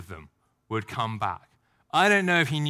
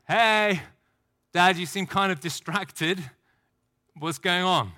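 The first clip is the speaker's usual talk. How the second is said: put-on kid's voice; 5 semitones higher, slower than usual. Isaac asking his father what's wrong, childlike. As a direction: gently pester a distracted dad. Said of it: "you're like".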